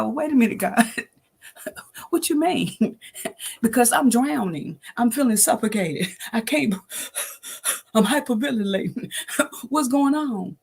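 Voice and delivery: high, laughing, half-despairing complaint; exasperated plea to God. Pretend. Asking God in mock despair, high and laughing. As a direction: laugh through a frantic question to God. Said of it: "Have you ever asked God".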